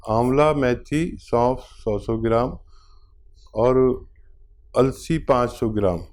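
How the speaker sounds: slowed down, each word spaced out for writing; slow dictation. Shown as a demonstration. Doctor dictating the remedy list to the caller, slowly. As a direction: read the list slowly so the caller can note it. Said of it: "लिख लीजिए".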